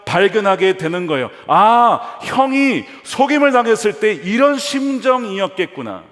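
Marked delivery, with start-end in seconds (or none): 1.5-6.0 higher, louder sudden realizing sigh; dawning realization. Acted. Preacher voicing Jacob realizing his brother's pain. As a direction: let the truth hit him all at once.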